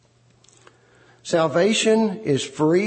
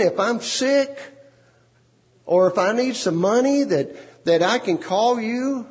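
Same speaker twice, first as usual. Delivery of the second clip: higher, sugary wife pleading her case; a sing-song, higher wife's voice; sweet-talking wife; 5 semitones higher than usual. Acted. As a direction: coax him sweetly, like a wife letting him down. Wife sweetly explains, voiced high.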